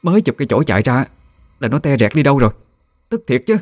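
angry neighbour woman. A narrator's reading. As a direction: neighbour fuming about stolen chickens. Neighbour Tư Hiền voiced. (giọng bà hàng xóm bực tức, cao)

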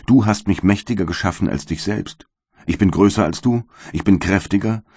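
a light voicing of the wretched creature; bitter creature. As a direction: plead and accuse at once, in the creature's role.

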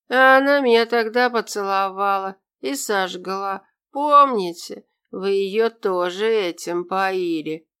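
lightly voiced drunken ramble; drunk rambling toast. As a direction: hop between topics, smiling vacantly. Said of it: "перескакивал с темы на тему, бессмысленно улыбаясь". (пьяная бессвязная речь)

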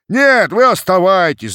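high, loud shout from the mob; loud cossack crowd yelling back. A narrator's reading. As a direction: call it out over the crowd. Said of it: "закричали из толпы".

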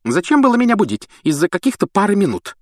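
put-on high, grumpy old portrait voice; grumbling lady. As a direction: grumble after him. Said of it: "пробурчала вдогонку полная дама".

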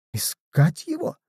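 barely holding back tears; breaking voice. A narrator's reading. Bedda asking Zwentibold back, her voice breaking. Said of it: "переспросила Бедда срывающимся голосом".

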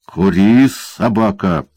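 harsh barked command; barking order. Acted. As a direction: snap it out like a command to a dog. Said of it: "рявкнул карлик".

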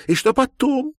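high, loud sob of a question; sobbing question. Acted. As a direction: ask it through a sob. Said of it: "всхлипнула Маловец".

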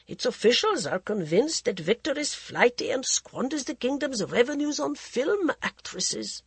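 cool, mocking aristocrat voice; mocking prince. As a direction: sneer it like a bored royal. Prince Pratap explains politics.

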